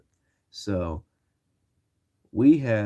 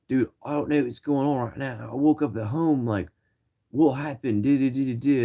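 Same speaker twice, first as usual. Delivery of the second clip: put-on British voice, pitched up; British accent; 5 semitones higher than usual. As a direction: imitate yourself stuck in a British accent. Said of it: "I was speaking in a British frickin' accent".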